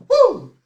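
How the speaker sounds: high, loud whoop of delight; sudden high whooping yell; joyful woo shout. Real, not acted. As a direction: let out a big celebratory whoop. Shout of joy after climax.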